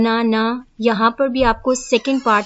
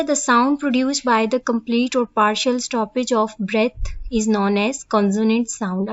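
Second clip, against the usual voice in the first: reading the definition word by word, slowly; slow dictation; much slower than usual. Acted. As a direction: dictate it slowly so students can copy. (धीमे-धीमे लिखवाते हुए पढ़ना)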